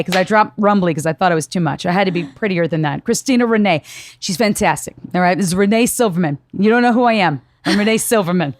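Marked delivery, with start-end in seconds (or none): 3.0-8.5 put-on New York accent. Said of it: "she sound like she's, like, a New Yorker".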